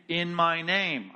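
IN MY NAME set apart with firm emphasis; deliberate weight on "in my name"; stress on IN MY NAME. Real, not acted. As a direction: punch each word of "in my name". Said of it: "You see what I'm emphasizing here?".

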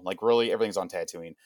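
mildly incredulous, unimpressed; a verbal eye roll; oh come on, seriously; exasperated eye roll. Retold or imitated. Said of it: "you know, eye roll".

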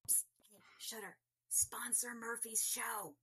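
playful conspiratorial whisper; mock-secret whispered nudge; stage whisper. Mock-secret plea to a sponsor.

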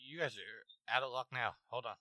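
dropping to a hush; suddenly quiet as she enters. Real, not acted. Wife now standing behind him.

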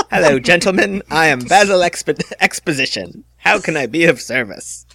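high, eager assistant voice; helpful assistant greeting the heroes, high; Basil Exposition. Acted. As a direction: chirp like a keen butler.

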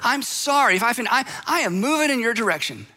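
mock the grudging apology, lightly; smug half-apology. Someone brushing off the person they hurt, mild smug apology. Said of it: "we say things like this".

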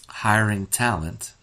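talent given slow, deliberate weight; slow emphasis landing on "talent"; stress on talent. Real, not acted. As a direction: underline "talent" by slowing down. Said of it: "underline the word talent".

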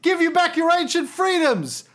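high, rousing rebel leader voice; rally the troops grandly; roaring rallying speech. Retold or imitated. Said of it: "He said".

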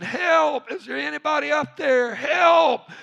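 high, loud cries for help; screaming for help. Acted. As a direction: yell upward to anyone in earshot. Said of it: "he started screaming".

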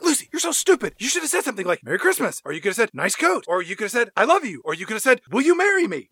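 high lightly voiced self-berating; mock self-scolding. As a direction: scold yourself in a squeaky voice. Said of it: "She's like".

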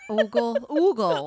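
silly ogle voice. Pretend.

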